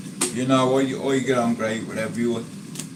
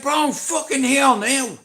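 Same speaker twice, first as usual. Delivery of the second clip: much higher, mock-excited friend's voice; imitating his friend; 11 semitones higher, 3 dB louder than usual. Vlogger imitating his friend announcing he has arrived, high and mock-excited. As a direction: pitch it up to play the friend. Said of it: "He said".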